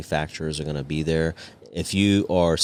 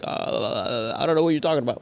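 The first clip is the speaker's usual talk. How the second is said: high, playing dumb foreigner; feigning ignorance; 5 semitones higher than usual. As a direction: act like you don't understand a word. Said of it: "Now I acted like I don't know any Farsi".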